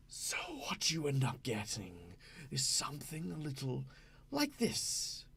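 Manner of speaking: wispy whispered ghost voice; airy, breathy ghoul whisper. Shown as a demonstration. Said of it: "It sounds very wispy".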